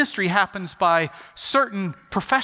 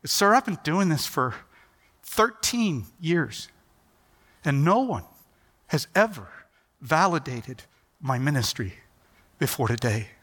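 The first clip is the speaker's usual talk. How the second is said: choked up; 3 semitones lower than usual. Retold or imitated. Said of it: "trying to get his composure".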